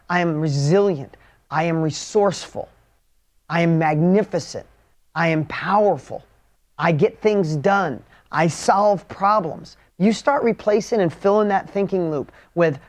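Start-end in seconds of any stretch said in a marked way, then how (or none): 0.1-9.8 affirmations. Shown as a demonstration. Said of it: "Like, shift that up".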